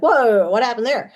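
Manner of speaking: mock startled exclamation; shocked. Beings popped out of the body, shocked. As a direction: act out a jolt of surprise. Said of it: "that can shock a lot of".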